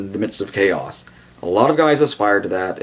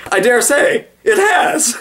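high, clipped posh English reply; posh British duke; 4 dB louder, slower than usual. Retold or imitated. Wellington answering Uxbridge, high posh British understatement. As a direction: play the unflappable English aristocrat. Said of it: "the Duke of Wellington turns around and goes".

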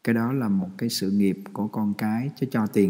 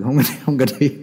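laughing no; 3 semitones higher, 6 dB louder than usual. Real, not acted. Laughing refusal after joke.

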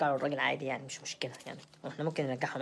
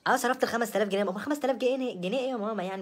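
defiant; 5 semitones higher than usual. Acted. Defends her spending to mother.

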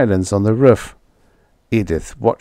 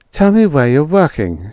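higher, louder, impatient; impatient demand; 7 semitones higher, 5 dB louder than usual. A narrator's reading. Edith pressing Roy about his new job, impatiently. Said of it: "she demanded impatiently".

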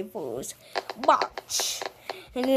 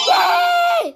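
high, loud yay; happy cheer; 8 dB louder than usual. Real, not acted. Child celebrating in a game, cheering high. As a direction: cheer with delight.

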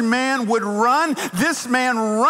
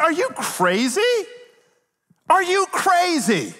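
high-pitched, indignant disbelief; incredulous refusal; 9 semitones higher than usual. Acted. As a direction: act out a runaway balking at going back. Imagines Onesimus refusing to go back.

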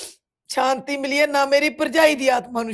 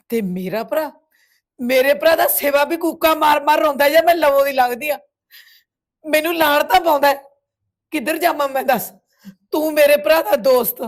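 raised, aggrieved voice; anguished reproach; 3 semitones higher, 3 dB louder than usual. Acted. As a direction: reproach him bitterly for failing your brother. Grieving sister reproaches brother's friend. (ਦੁਖੀ ਹੋ ਕੇ ਉਲਾਂਭਾ)

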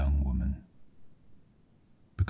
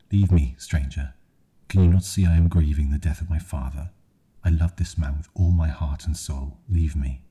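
shouting; 3 dB louder than usual. Acted. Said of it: "She stood and shouted at the stranger".

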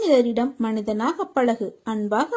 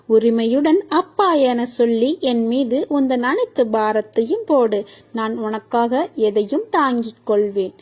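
fervent loud preaching; 6 dB louder than usual. Acted. Devotional exhortation rises to fervour.

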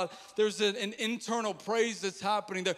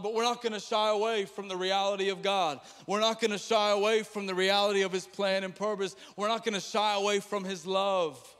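fast and louder, insistent repetition; fervent preaching build; building declaration; 3 dB louder, faster than usual. Real, not acted. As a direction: drive it home with conviction. Rising declaration, preaching intensity.

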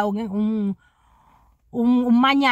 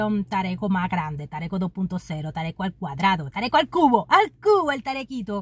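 mock escalation; faster than usual. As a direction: pile it on, mocking more each time. (subiendo burlona de tono bajo a alto)

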